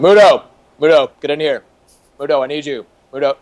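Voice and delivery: mock yell for a staffer from the office; calling a producer's name like an impatient boss; retold boss yell. Boss calling his producer from the office, mock yelling. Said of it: "He'd just yell out of his office".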